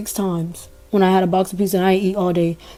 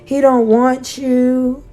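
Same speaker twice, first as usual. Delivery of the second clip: taunting mother; 4 semitones higher, much slower than usual. Retold or imitated. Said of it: "I was like".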